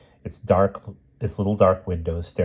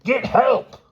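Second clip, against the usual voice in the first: much higher, loud desperate call; shout; 5 dB louder than usual. Acted. Wilby yelling to Lucy for help, desperate. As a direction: yell for help over the roar. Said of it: "he shouted".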